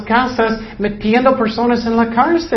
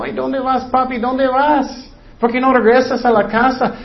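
put-on child's plea; 5 semitones higher than usual. Children crying for jailed father.

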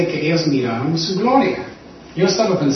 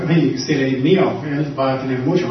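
laughing tease. Retold or imitated. Imagined Jesus teasing, laughing.

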